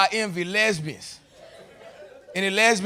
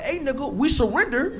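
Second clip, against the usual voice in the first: panicked surrender; 6 semitones higher than usual. Retold or imitated. Crying surrender during shootout.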